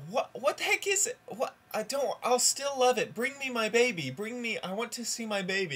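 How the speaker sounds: very high, flustered disbelief turning to pleading; hammed-up high, insistent outburst; mock frantic shock. Mother's escalating shock and plea.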